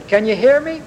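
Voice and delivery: preacher voicing David's shout across the valley; calling out. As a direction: call out to the troops far off. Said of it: "and he shouted to Saul's troops".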